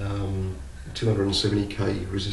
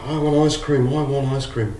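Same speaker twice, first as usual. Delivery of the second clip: put-on child whining; 5 semitones higher, 4 dB louder than usual. Boy demanding in the joke.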